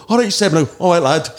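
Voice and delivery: high-pitched mock greeting from drunk clubbers; buckled punters. Drunk clubbers greeting a fake Seb, high-pitched imitation. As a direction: imitate drunk fans hailing a DJ. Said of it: "people were that buckled they'd go".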